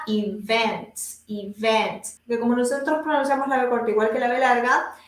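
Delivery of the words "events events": "events" with a strong English V, not a B; low, careful "events" with firm V; strong V sound. Shown as a demonstration. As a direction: lean on the V inside "events". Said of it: "la B corta en inglés que tiene".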